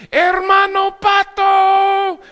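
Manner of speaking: high, loud, drawn-out call; kids shouting a name. Retold or imitated. Kids shouting from the school at the big gringo. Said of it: "they would start shouting".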